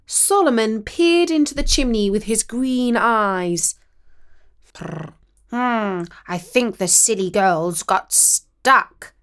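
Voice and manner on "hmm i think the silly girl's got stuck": slow, lightly purred cat voice; purring cat. Acted. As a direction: let the cat purr it out slowly. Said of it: "he purred".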